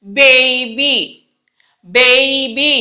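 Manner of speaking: put-on BABY with both B sounds pressed firmly; teacher's drawn-out model of బేబీ; emphatic B. Shown as a demonstration. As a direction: say బేబీ slowly, leaning on each B. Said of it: "చాలా ఒత్తి పలికే పదాలు".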